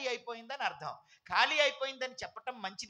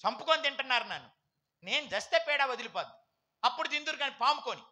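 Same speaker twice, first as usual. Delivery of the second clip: mock threat; faster than usual. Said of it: "భర్తలు కూడా బెదిరిస్తుంటారు".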